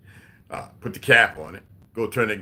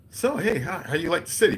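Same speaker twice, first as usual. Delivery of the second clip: higher, lightly put-on Italian accent; mock Italian accent; 5 semitones higher than usual. Italian local asks visiting sailors, in mock Italian accent. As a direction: imitate the Italian man's accent, friendly question. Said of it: "in his accent and shit".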